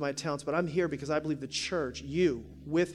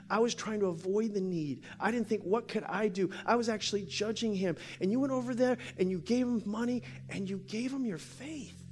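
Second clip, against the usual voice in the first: high, earnest imitated confession; emotional woman; 4 semitones higher than usual. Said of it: "she's real emotional".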